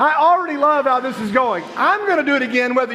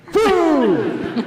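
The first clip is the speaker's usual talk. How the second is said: higher, a mild imitated yell; mock yell of food; 5 semitones higher than usual. Host imitating Cole yelling for food, a mild mock yell. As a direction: toss out the word like a hungry friend yelling it. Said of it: "I'd seen him yell food".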